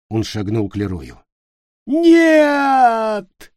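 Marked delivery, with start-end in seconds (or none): 1.8-3.5 high, loud scream of no; terrified cry. Acted. Leroy facing Peter's knife, high terrified cry. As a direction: yelp it in terror.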